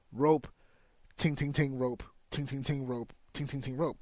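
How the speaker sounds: quick, tight "ting, ting, ting" bursts between each "rope"; sped-up flow. Shown as a demonstration. Trainer showing rope running in an eighteen, sped up. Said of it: "Now you're speeding up the natural flow".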